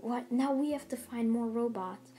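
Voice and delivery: mildly shocked crowd reaction; mock shock. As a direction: act out a startled group lightly. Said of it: "like, in shock".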